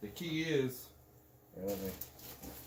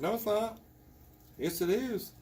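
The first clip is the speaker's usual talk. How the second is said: higher-pitched contradicting back and forth; retold argument; 8 semitones higher than usual. Instructor retelling his argument with a tourniquet rep, mock bickering. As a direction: imitate a stubborn back-and-forth squabble.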